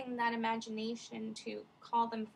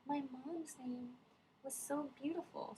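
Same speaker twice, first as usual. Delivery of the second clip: put-on wistful boy; 4 semitones higher, 5 dB quieter than usual. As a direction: muse longingly about his mother. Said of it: "he's like".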